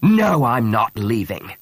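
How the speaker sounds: slow, deliberate denial; menacing correction. Acted. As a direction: correct him with threat underneath. Priest coldly corrects the lord.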